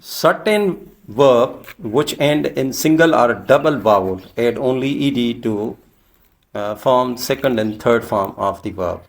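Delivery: slow, deliberate dictation pace; slow rule reading. Shown as a demonstration. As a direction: spell out the rule slowly for the class. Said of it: "teacher reading rule slowly".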